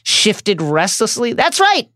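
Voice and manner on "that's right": much higher, strained mock squeak; even higher voice. A narrator's reading. Umbridge confirming to the centaur, squeaky and scared. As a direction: push it up into a panicky squeak. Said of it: "in an even higher voice".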